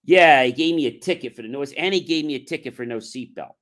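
loud burst at the start, then easing; mildly indignant retelling; retold pissed-off complaint. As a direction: imitate an annoyed kid griping. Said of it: "he's all pissed off".

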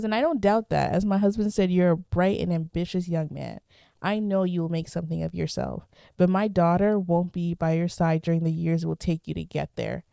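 reading a stern mother's lines from a novel; lightly voiced stern mother; reading aloud. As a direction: read the quote with a touch of the mother's firmness. Reads the mother's speech from book.

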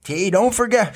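a playful high call from mom; mild mock yell. Son quoting his mother's daily mild mock yell. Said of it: "My mother yells at me every day".

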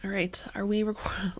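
unvoiced whisper. Real, not acted. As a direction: breathe the words. Whispered check before recording.

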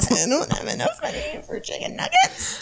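squealed high through laughter, voice cracking; laughing high squeal. Retold or imitated. To friends, repeating the Vine line in a laughing squeal. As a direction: shriek the line while cracking up.

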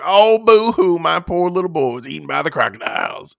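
mocking boo-hoo, high and loud at first; sneering fake weeping over the boy; fake crying. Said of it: "And he's like".

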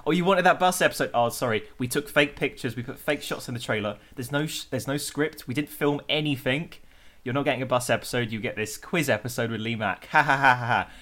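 smug mock-apology, fast, then a fake laugh; mocking taunt. BBC mocking the fans who wanted a bus episode, smug taunt. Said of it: "a piss take to the fans saying".

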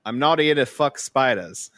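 careful, fairly convincing Aussie imitation; mild Australian accent attempt that wobbles at the end. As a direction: try an Australian accent, slipping on SPIDERS. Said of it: "that started pretty good".

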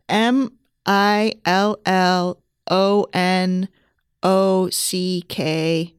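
spelling it out. Real, not acted. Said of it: "spell the word".

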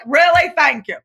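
high, mock-grateful reply; sarcastic thanks. Talking back to the nagging voice, sarcastic. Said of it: "And I'm like".

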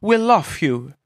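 odd character voice for a laugh; lightly put-on goofy voice; silly put-on voice. Cohost teasing his partner in a put-on voice. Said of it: "What was that?".

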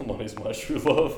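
laughing confession. Real, not acted. Joking confession amid group laughter.

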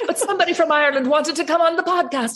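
high laughing retelling of the mistake. Real, not acted. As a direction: giggle your way through it. Laughing recalling the Irish mix-up.

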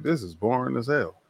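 hamming up being creeped out alone in the house; mock spooked.

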